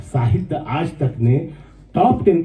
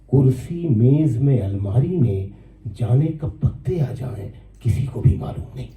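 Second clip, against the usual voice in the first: poem recitation. Acted. First take of verse. (धीमे सुर में नज़्म पाठ)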